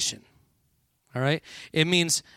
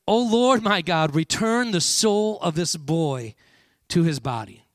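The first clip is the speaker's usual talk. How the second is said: crying out to God; 2 semitones higher, 4 dB louder than usual. Acted. Elijah pleading to God over a dead boy, crying out. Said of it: "begins to cry out to God".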